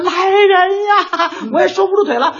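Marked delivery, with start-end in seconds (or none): 0.0-1.3 slow, drawn-out high shout; 拖长声高喊; calling for help. Retold or imitated. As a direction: stretch it out like a bystander calling out. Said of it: "那个喊".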